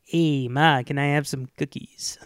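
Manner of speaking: low, husky tough-guy impression; Charles Bronson. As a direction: tough guy asking mom for a treat. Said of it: "I love doing the Charles Bronson".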